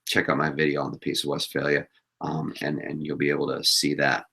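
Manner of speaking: raspy, voice giving out; strained, tired hoarse throat. Real, not acted. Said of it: "I'm losing my voice here".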